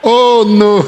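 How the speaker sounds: loud laughing oh no. Real, not acted. Preacher laughing at the boy's lie, loud. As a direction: burst into laughter.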